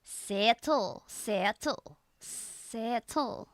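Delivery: "Settle" with a Scottish eh. Shown as a demonstration. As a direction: drill "Settle" with a long Scottish eh. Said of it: "And turns to settle".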